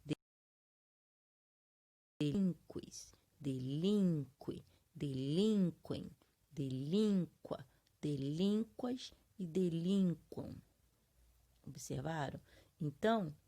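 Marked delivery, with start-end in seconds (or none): 2.2-10.6 slow demo of "delinqua" with stressed "lín" and a light "qua". Shown as a demonstration. Teacher conjugating delinquir for students, stressing the I in "delinquem". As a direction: punch the "lin" in "delinque", long and strong, then drop off. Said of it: "a sílaba mais forte tiver no A ou no I".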